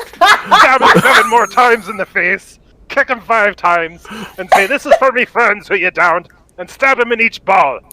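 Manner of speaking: gleeful gory boast. Real, not acted. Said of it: "You're so descriptive".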